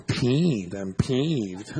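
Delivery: mock mildness. Mocking the wimpy word.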